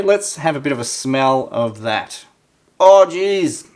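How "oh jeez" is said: disgusted gasp. Real, not acted. Disgusted at bad smell.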